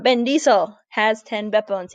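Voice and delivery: mock German-Russian accent on English words; playful German-Russian accented catchphrase; mixed German-Russian-English accent. Shown as a demonstration. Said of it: "You say it in kind of a mixed German, Russian, English accent".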